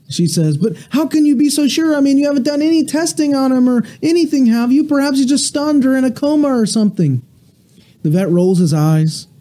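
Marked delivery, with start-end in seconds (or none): 0.6-7.2 higher pitched, fast, lightly voiced fretting woman; a hint of a desperate pet owner clinging to hope; pleading duck owner. Duck owner begging the vet, lightly voiced and higher.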